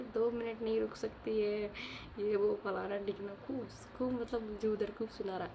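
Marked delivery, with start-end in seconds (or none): 0.0-3.3 imitating angry brother. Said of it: "खूब गुस्से में आके".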